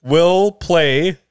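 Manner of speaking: reading through giggles; fighting back laughter; giggling. Real, not acted. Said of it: "Now I can't talk normal".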